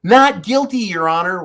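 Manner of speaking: high, loud mock plea of not guilty; sneering imitation of a fraudster pleading; mocking Sam Bankman-Fried. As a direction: ham up the defendant's innocent plea. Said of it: "back to Sam Bankman-Fried".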